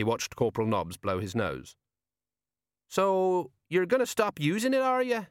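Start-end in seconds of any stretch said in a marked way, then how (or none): 2.9-5.3 doubtfully. A narrator's reading. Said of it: "he said doubtfully".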